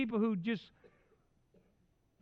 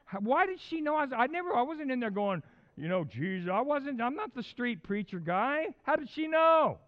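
higher-pitched mock bewilderment, building to a loud cry; baffled disbelief; 4 semitones higher, 3 dB louder than usual. Preacher recalls a lady guessing he was Christian, baffled disbelief. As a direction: act out being stumped, voice climbing. Acts out his baffled reaction.

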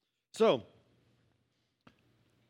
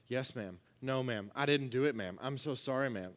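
put-on meek, softer yes-ma'am child; a kid cowed in the principal's office; scolded student; 5 semitones lower, 5 dB quieter than usual. Pastor mimicking a student in trouble, meek and soft. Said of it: "like going to the principal's office".

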